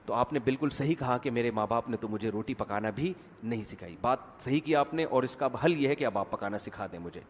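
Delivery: low, soft, courteous daughter-in-law; mock-polite. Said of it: "وہ پھر تمیز سے نہیں کہے گی". (تمیز سے، دھیمے لہجے میں)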